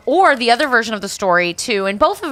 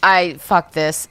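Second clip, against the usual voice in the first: fed up; 2 semitones lower, much slower than usual. Retold or imitated. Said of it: "She's like".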